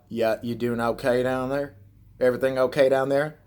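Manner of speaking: put-on Southern hillbilly twang; hillbilly accent. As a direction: imitate a hillbilly brother checking in. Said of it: "got a hillbilly accent".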